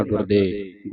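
ਗੁਰਦੇਵ cut to "gurde"; wrong dropped ending. Shown as a demonstration. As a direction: leave the v off the end of ਗੁਰਦੇਵ. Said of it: "ਨਹੀਂ ਪੜ੍ਹਨਾ".

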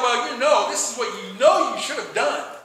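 loud argumentative answer; acted scolding with force. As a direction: push back as if starting a fight. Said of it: "are argumentative".

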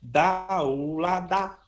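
"dá, u, lá, dá" sustained and connected; syllable demo. Shown as a demonstration. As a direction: demonstrate "dá, u, lá, dá" as one linked articulation pattern. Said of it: "quando eu faço".

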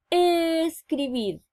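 "Escribir" slow, opening E stretched out; "Escribir" said slowly with a long clear E; over enunciating. Shown as a demonstration. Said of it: "comienzan con el sonido E".

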